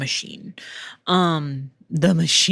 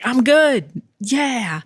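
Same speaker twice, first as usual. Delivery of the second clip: mock casual reassurance; 7 semitones higher, 4 dB louder, much slower than usual. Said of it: "but being like".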